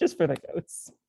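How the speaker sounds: words spoken through a light chuckle. Playing a character answering an old woman: laughing while talking. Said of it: "he laughs a little and says".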